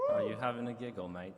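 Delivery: hammed-up cheeky British accent; mock British accent, playful jab; stereotype British. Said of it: "you do the British, like, stereotype British stuff".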